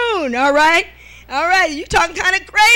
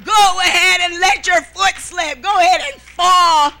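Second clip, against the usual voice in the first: a hint of a shouted urging, rising louder; mock inner voice; 4 dB louder than usual. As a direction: egg yourself on to fall, half-joking. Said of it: "I thought in my mind".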